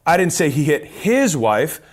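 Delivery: his punched, rising end; stress on HIS. Shown as a demonstration. Showing how stress on his changes a sales line. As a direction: lean on the word his in I didn't say he hit his wife. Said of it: "four different ways of saying that statement".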